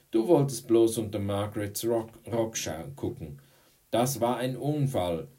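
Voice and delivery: high, loud back-and-forth; heated quarrel. Acted. Pupils quarrelling over an accident, loud protest.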